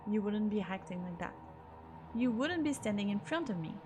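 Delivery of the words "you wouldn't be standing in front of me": heated argument. Acted. Arguing at gunpoint.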